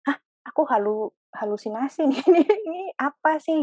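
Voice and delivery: retold bafflement, breaking into a laugh; baffled disbelief. Telling the interviewer about doubting herself, amused disbelief. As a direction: question yourself incredulously, pitch climbing into a giggle.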